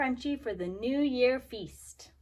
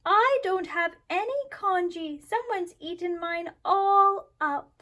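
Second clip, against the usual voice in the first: put-on high, loud wailing child; childlike wail; 6 semitones higher, 5 dB louder than usual. A narrator's reading. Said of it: "Little Chan wailed".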